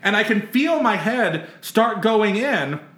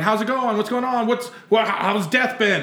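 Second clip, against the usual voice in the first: nervous questioning; 4 semitones higher than usual. Retold or imitated. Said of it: "I try to ask them questions".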